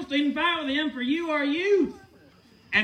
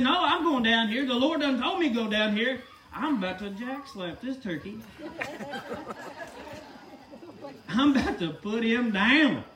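laughing bravado. Acted. David voiced, laughing bravado.

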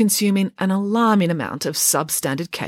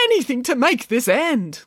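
high, strained plea; frazzled manager at the end of his tether; desperate; 7 semitones higher than usual. A narrator's reading. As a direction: beg for it to be over. Frantic manager wants it over.

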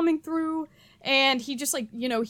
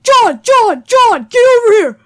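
loud, high shout for John; dad yelling across the airport; frantic calling; 9 semitones higher, 13 dB louder than usual. Retold or imitated. Dad shouting at son John across the airport, loud and high.

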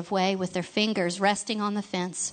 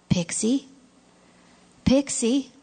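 worried calling; 5 semitones higher, 3 dB louder, slower than usual. Acted. Jacob calling to a wilted flower.

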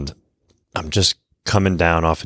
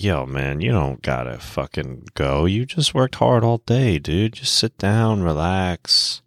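whiny little tempter voice, pitched up; inner bitch voice; 2 semitones higher than usual. Retold or imitated. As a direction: talk yourself out of training, sweet-talking. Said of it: "the little bitch voice is like".

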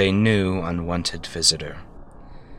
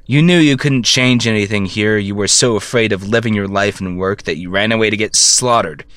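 louder, accusing; angry; 4 dB louder than usual. Acted. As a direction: hurl it at him. Shouting at dead brother.

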